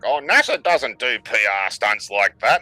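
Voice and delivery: mocking quote. Mockingly quotes Grok's denial.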